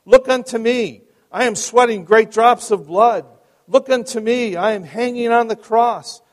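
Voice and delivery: high, loud chanting exhortation; ringing pulpit appeal with repeated rise and fall; impassioned lay preacher. Acted. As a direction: cry each phrase out like a pleading preacher. Voices the preacher's repeated plea.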